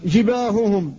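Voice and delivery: جباههم with both ه breathy and unvoiced; soft whispered ha. Shown as a demonstration. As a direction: model جباههم with whispered, clean ه sounds. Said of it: "فلذلك تقول".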